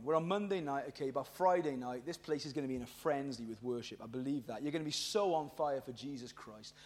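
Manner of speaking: low, very soft urging; hushed earnest appeal. Real, not acted. Preacher warns youth they need this, hushed. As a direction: drop right down, confiding in them.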